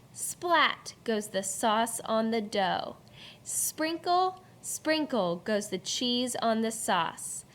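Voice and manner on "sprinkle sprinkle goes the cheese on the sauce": beat-led read-aloud with sound words popped up; rhythmic poem reading. Shown as a demonstration. Teacher reads poem to class with bouncy rhythm. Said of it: "Listen to the beat as Miss Fowler reads this poem".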